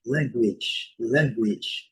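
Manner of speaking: "language" with a W sound, ending "gwidge"; U well pronounced. Shown as a demonstration. Teacher repeating the correct form, "language" with clear W and short i. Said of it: "O U bem pronunciado".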